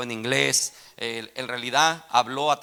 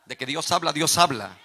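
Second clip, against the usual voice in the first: firm preacher's proclamation, moderately raised; measured first statement of a sermon refrain; preaching declaration; 2 semitones higher, 4 dB louder than usual. Real, not acted. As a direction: declare it firmly to the congregation. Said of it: "Se lo voy a volver a repetir".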